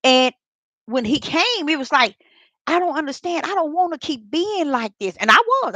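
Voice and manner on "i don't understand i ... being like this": a touch of retold distress, higher; mildly complaining to the Lord, voice lifted; pleading complaint. Recalling telling the Lord she can't stop, mild pleading. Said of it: "I was saying it just like that".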